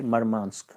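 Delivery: मरमांस्क said clearly, stress on मर; pronunciation demo. Shown as a demonstration. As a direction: model मरमांस्क for the class, syllable by syllable. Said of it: "मरमांस्क इसको बोलेंगे". (मरमांस्क साफ़ उच्चारण)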